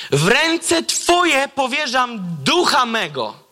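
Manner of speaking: lightly voiced dying Jesus, slow; slow solemn last words. Preacher voicing Jesus's last words, slow and solemn. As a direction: draw out each word with reverence. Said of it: "ostatnie jego słowa brzmią tak".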